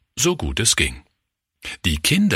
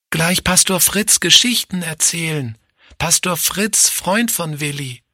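put-on high-pitched little boy's announcement; excited child announcing; 10 semitones higher than usual. A narrator's reading. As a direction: call out the news as a small child, high. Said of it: "verkündete ... Willi durch Günthers Bettgitter".

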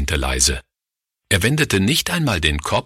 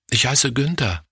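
put-on higher-pitched little boy answering the teacher; lightly voiced schoolboy; Günther, kleiner Junge; 7 semitones higher than usual. A narrator's reading. Child figure answering the teacher. (leicht gespielter kleiner Junge, höhere Stimme)

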